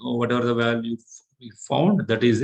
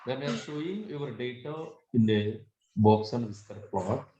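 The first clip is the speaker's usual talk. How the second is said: very low voice; 5 dB quieter than usual. Real, not acted. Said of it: "Sir, your voice is, uh, very low".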